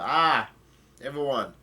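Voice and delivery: loud "Ah" easing into a call; mock yell to the group, voicing a character; retold yell. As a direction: burst out, then ease off. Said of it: "somebody yells out".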